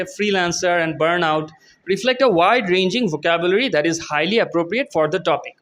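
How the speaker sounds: slow, careful read of the English text; slow reading aloud. Shown as a demonstration. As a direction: read each word out slowly for students. Reads model answer aloud. (ধীরে ধীরে পড়ে শোনানো)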